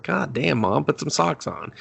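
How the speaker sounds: playful disgusted groan of a voice; mock exasperation. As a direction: scold mom about her bare feet. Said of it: "I was like".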